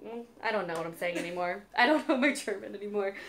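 giggly tipsy rambling. Real, not acted. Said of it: "I'm a little bit tipsy right now".

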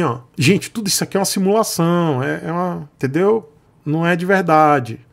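put-on a touch of explaining to small children; talking down. Vlogger mocks viewers as kids, lightly condescending. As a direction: spell it out as if to a schoolkid. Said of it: "Pensa no teatrinho da escolinha".

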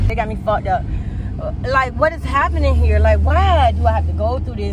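vent, exasperated; upset outburst. Real, not acted. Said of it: "I'm really upset".

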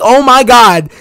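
high-pitched retold amazement; flipping out. Viewer recalling his reaction to the reveal, flipping out. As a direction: exclaim it like a stunned fan. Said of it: "I was flipping out".

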